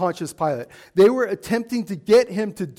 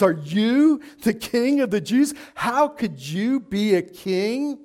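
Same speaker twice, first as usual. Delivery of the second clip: YOU stretched in a scornful question; Pilate's disbelief, heavy stress on YOU; incredulous emphasis. Retold or imitated. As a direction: lean on YOU, then draw out KING in disbelief. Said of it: "he must have looked pathetic to him".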